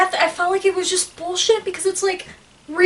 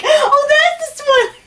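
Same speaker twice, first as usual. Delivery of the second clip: high, drawn-out mock dismay; imitated realization; 8 semitones higher, 4 dB louder, slower than usual. Imitating friend mistaking it for the spoiler, high mock dismay. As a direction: mimic the dawning realization, half laughing. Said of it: "you took it as like".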